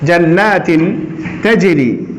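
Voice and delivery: তাজরি said very slowly with a bounce on জ; qalqala demo. Shown as a demonstration. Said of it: "এই যে তাজরি এখন জিমে সাকিন". (তাজরি ধীরে, জ-তে কলকলা)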